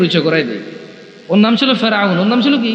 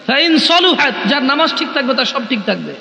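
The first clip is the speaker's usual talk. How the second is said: declaiming sermon to a crowd, rising pitch; fervent sermon voice; preaching sermon; 3 semitones higher than usual. Acted. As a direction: preach it out to the gathering. Islamic sermon to gathering.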